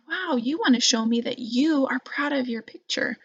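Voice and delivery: hushed, gentle encouraging voice; soft encouraging. Shown as a demonstration. Teacher showing the encouraging version, soft and gentle. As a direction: reflect the child's pride back softly. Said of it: "I'm saying".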